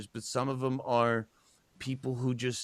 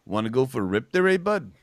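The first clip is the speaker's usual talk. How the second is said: Canadian accent; 6 dB louder than usual. Shown as a demonstration. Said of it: "up north ... my favorite is".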